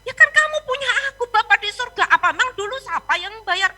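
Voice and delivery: emphatic, rapid-fire mock reproach; God's rebuke. God reminding the pastor who always provided, reproachful.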